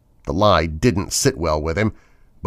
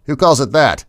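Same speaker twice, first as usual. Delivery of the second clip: laughing off fear; 6 semitones higher, 5 dB louder than usual. A narrator's reading. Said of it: "Rodney gave a nervous laugh".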